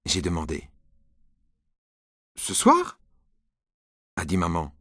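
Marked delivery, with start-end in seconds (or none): 2.4-3.0 high startled question; surprised mother. Acted. Mom is surprised by Nicolas's request, high and startled. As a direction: catch her off guard.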